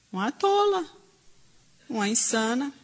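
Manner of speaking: mock exclaim. Mocking what people would think.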